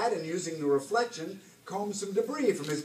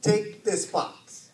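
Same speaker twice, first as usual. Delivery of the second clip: very slow, weighted captain's command; deliberate order; 4 semitones higher, 4 dB louder, much slower than usual. A narrator's reading. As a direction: spell out the order slowly to an underling. Captain gives mate an order.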